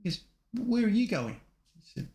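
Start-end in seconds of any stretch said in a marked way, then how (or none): 0.5-1.4 copper calling out. Retold or imitated. Copper calling out to drunk driver.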